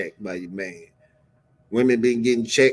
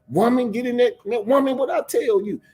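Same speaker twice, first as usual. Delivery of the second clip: imitating a seventies man ordering his woman; old-school man barking; 11 semitones higher than usual. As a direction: boss her around like a seventies man. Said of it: "that's how they used to talk to women".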